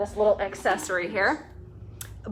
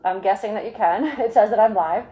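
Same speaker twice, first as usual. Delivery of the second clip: muffled through a face mask and shield. Real, not acted. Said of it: "hear me through this mask and face shield".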